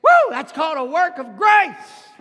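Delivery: high, loud shout of joy; excited whoop. Real, not acted. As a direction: let the woo ring out. Preacher whoops to congregation.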